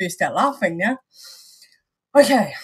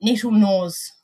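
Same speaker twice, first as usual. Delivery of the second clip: exaggerated New Zealand vowels on nettle nose; New Zealand accent, stated evenly; 3 dB louder, slower than usual. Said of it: "explaining my accent back to Gizzy".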